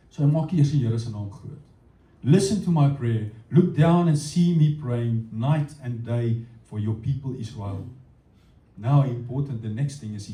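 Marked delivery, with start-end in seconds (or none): 2.2-7.9 prayerful reading. Acted.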